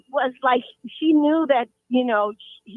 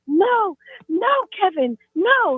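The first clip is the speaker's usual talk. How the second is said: mother pleading; 8 semitones higher, slower than usual. Retold or imitated. Mom pleading with her dead son's ghost, frightened. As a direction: beg the ghost to stop. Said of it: "And she's like".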